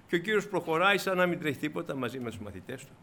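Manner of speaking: usual speaking voice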